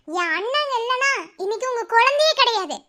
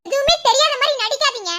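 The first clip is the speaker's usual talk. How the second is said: too loud; 5 semitones higher, 3 dB louder than usual. Acted. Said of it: "மெதுவா பேசு".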